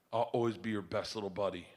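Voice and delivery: put-on soft, low, sincere kid; imitated tender promise. Daughter reassuring dad in the pool, soft and sincere. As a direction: quietly pledge loyalty, voicing a child.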